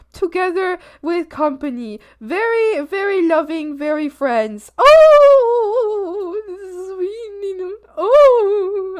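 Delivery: doting coo. Real, not acted. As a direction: coo over it like a sweet pet. Doting over frog picture.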